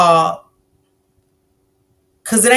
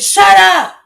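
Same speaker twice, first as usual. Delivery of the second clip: put-on sharp loud yell at a child; mother shouting down her child; yelling at kid; 8 semitones higher, 9 dB louder than usual. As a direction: bark it at the kid like an angry mom. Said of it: "She's yelling at the kid".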